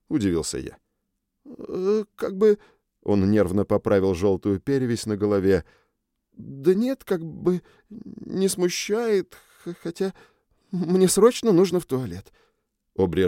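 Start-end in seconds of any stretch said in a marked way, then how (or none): 1.4-12.3 put-on higher, stammering young man; flustered excuse to bolt; nervous boy. A narrator's reading. Obri nervously dodging.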